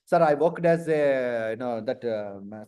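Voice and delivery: slow, drawn-out fumbling; groping vaguely for the answer; hesitant candidate. Acted. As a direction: stall with trailing fillers, sinking low. Candidate fumbling his job summary.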